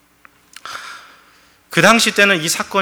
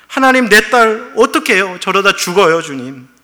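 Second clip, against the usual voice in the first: loud, higher, exasperated begging; a believer loudly pleading with God over family troubles; pleading complaint; 3 semitones higher, 4 dB louder than usual. Retold or imitated. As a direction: demand answers from God.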